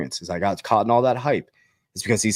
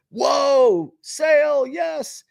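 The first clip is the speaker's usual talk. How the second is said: excited whoop; much slower than usual. Real, not acted. Back from the lake, seeing prices dropped, much higher delighted whoop. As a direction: cheer a sale like a bargain hunter.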